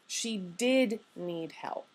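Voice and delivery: did stressed, said slowly; emphasis on did. Shown as a demonstration. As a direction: lean on the word did to make it emphatic. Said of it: "It's really great for emphasis".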